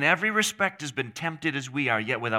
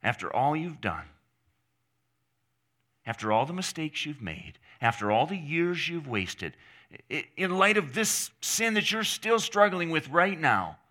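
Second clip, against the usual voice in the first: growing more insistent; 3 semitones higher than usual. Acted. Preacher voicing the guilt-laden voice, building insistence. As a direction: pile up the accusations, each stronger. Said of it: "it will get louder and more insistent".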